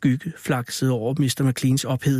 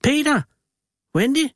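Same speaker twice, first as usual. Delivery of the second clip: desperate shout; 12 semitones higher than usual. Acted. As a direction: yell the names across the room. Parents calling missing children.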